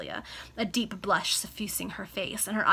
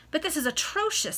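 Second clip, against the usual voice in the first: pitched high in mild agitation; a rising protest, shaken; wife hearing she was spied on, high agitated protest; dreadfully excited; 8 semitones higher, 4 dB louder than usual. Acted. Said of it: "now dreadfully excited".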